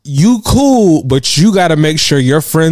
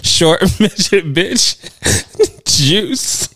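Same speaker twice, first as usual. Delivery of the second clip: mock baby babble. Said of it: "And she said".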